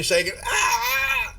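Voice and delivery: a shaky, high, slow quaver; trembling voice. Acted. Game master voicing Cooper's convulsions, high trembling quaver. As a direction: let the word tremble as if convulsing. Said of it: "Cooper shaking".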